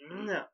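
high "mm" of biting into flesh; imitated biting noise. Sister biting his flesh, imitated chomping noise. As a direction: mimic a zombie chomp. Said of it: "she's biting his flesh like".

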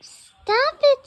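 loud, high outburst; annoyed yell. Acted. Telling Sky to stop, annoyed high yell. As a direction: snap loudly at a pest to stop.

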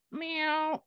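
high cat meow. Acted. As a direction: answer like a stubborn kitten. Cat puppet refuses.

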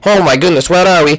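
deep spooky whoa; low ghostly voice. Acted. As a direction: boom it out low.

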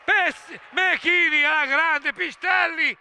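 high, urgent play-by-play; excited commentary. Real, not acted. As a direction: call the action breathlessly. Chance called out.

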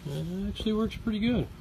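lightly put-on hillbilly twang on "pretty good"; mock hillbilly accent. Pitmaster praising his smoker in a mock hillbilly accent. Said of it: "hillbillyish accent".

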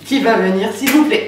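pleading while twisting a lid; begging the stuck cap to open; opening a stuck jar. Real, not acted. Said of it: "j'arrive pas à l'ouvrir".

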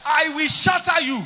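loud, high fervent declarations; preaching at full force. Real, not acted. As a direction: thunder each arrest at the crowd.

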